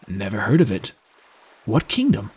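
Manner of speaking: mildly puzzled sailor's character voice. Acted. Sailor asking Drew about his homeland, puzzled. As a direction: query it as a baffled boatman.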